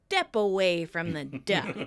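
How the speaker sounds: low-pitched, measured warning; calm. Acted. Chandler to yelling Tommy from the doorway, calm and low. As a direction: talk someone down calmly. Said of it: "Chandler calmly says".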